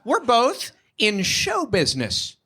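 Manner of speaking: high, excited ditzy gush; lady on the plane. Retold or imitated. Comic to lady on plane, gushing high and excited. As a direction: gush like a starstruck dancer. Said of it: "She's like".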